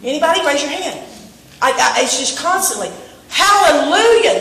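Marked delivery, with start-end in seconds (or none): 3.3-4.4 high, loud, drawn-out hallelujah; joyful shout. Real, not acted. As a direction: cry it out in praise. Preacher's joyful exclamation.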